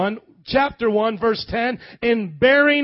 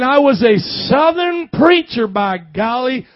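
Southern preacher; 3 semitones higher, 5 dB louder than usual. Retold or imitated. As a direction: put on a big Kentucky pulpit voice. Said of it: "I just turned into him".

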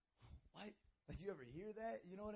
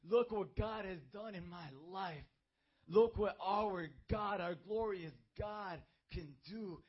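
proud praise; 6 dB louder, slower than usual. Retold or imitated. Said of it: "my boast is".

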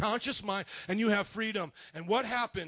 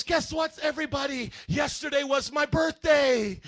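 put-on excited child; 4 semitones higher, 6 dB louder than usual. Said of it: "Bethany goes in and goes".

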